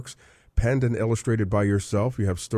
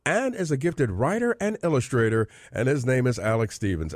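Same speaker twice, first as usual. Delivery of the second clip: radio announcer read; 3 semitones higher than usual. Acted. Host opening Music with a Mission for listeners, in an announcer voice. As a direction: open the show like a radio host.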